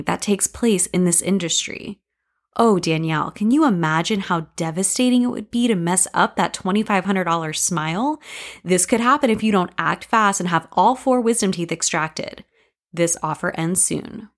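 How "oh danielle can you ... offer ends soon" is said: mock salesman pitch, lightly put on; hammed-up TV ad read selling fear; a hint of an infomercial announcer; cheesy infomercial voice. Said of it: "like one of those bad infomercials".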